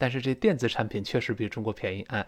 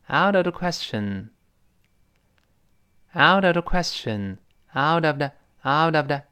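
higher, projected drill of "out of the question"; reading out loud; 3 semitones higher than usual. Shown as a demonstration. Teacher leading students in repetition, reading out loud. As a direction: read it out clearly for a class to repeat. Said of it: "我们大声来读一遍吧".

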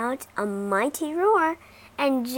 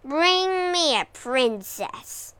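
roared; 4 semitones higher, slower than usual. Acted. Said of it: "roared the dragon".

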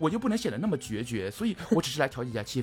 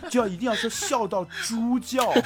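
laughing; 9 semitones higher, 4 dB louder than usual. Real, not acted. Joking about exaggerated laugh words.

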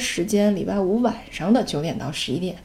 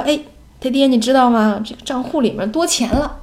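higher-pitched, happily breaking good news; retold delight, louder at the start; happy, excited; 5 semitones higher, 3 dB louder than usual. Wife telling her husband about extra money, happily excited. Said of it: "我就很happy".

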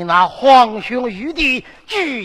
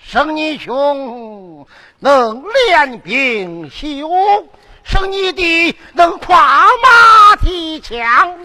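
戏曲念白; 2 semitones higher, slower than usual. Acted. 父王唱念责问女儿.

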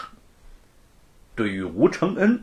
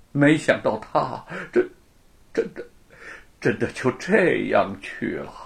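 grieving scholar; 2 semitones lower than usual. Acted. Friend mourning Li, a touch of grief. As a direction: mourn him with measured sorrow.

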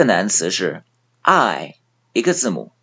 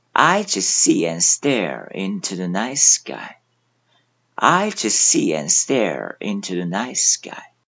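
slow review reading; 3 semitones lower than usual. Shown as a demonstration. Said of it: "再来复习几遍".

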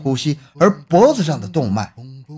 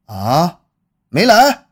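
surprised; 3 semitones higher, 4 dB louder, much slower than usual. Acted. Director surprised, no editor.

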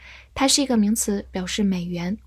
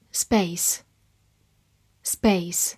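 slow whisper; 3 semitones lower, much slower than usual. Shown as a demonstration. Vocabulary review repetition.

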